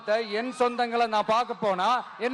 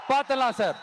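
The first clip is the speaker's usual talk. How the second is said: laughing dare. Acted. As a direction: laugh it out as a taunt.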